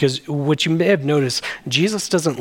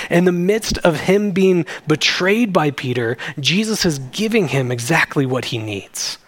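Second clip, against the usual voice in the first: usual speaking voice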